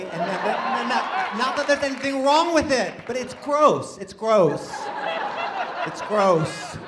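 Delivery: high, loud hammed-up disgust; mock disgust. Comic jokes about being gay with hammed-up high disgust. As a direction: play the prissy outrage big.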